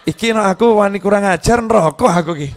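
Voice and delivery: husband laughing at his own fear of hell. Retold or imitated. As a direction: laugh at himself as the sheepish husband. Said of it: "Suaminya ngomong".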